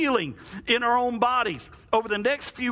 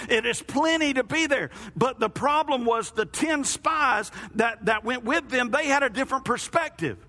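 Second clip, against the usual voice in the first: raised, fired-up sermon; fiery preaching; 2 semitones higher than usual. Acted. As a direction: preach it with rising fire.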